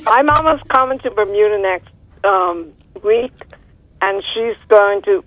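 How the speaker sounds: everyday Bermudian, feeling for the words; Bermudian accent. Shown as a demonstration. Caller retrying the translation, Bermudian accent. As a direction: retell it in Bermudian. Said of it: "In your best Bermudian accent".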